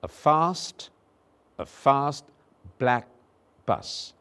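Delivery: "A fast black bus" said slowly, each vowel clear; slow model sentence. Shown as a demonstration. Teacher modelling three vowels slowly. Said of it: "Listen again".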